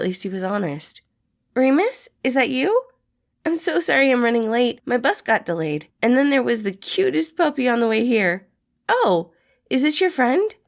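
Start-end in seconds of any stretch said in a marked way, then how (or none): 1.5-10.5 higher, louder cheerful chatter, apologising in a rush; a sunny puppy of a man arriving late; bubbly, higher sweet man; Patton, sweet and bubbly. A narrator's reading. Patton voiced in story.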